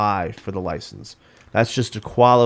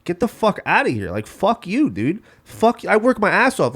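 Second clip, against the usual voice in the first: angry rant; 9 semitones higher than usual. Real, not acted. Ranting at people on benefits.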